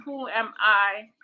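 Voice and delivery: slow question landing on "I"; stress on I. Shown as a demonstration. Recapping the third time of the question, stress on "I". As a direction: save the emphasis for the final "I". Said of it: "put the emphasis on a different word".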